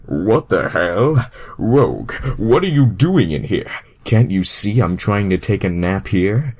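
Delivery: jolted awake and indignant; startled outburst. Acted. Sonic startled awake by Rogue.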